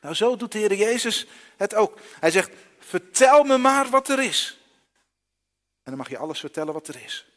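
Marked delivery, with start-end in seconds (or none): 2.8-4.6 inviting Jesus. Acted. Jesus invites the blind man.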